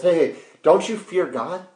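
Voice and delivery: mild acted reproof; rebuking. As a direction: pull the mocker up short. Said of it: "actually rebukes the other criminal".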